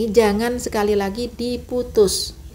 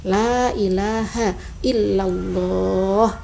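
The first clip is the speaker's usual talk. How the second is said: la ilaha illallah slow and drawn out; slow recitation; much slower than usual. Shown as a demonstration. Teacher recites slowly for beginners. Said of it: "Ini Latinnya".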